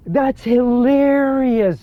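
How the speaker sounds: high, long-stretched "hilarious"; amazed. Real, not acted. Player amazed they changed the note, drawn-out disbelief.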